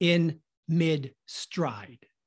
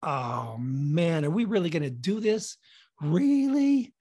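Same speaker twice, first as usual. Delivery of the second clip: reluctant disbelief; 2 semitones lower than usual. Acted. Nervous streaker doubting the plan before the run, reluctant disbelief. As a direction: groan it doubtfully, then lift in disbelief.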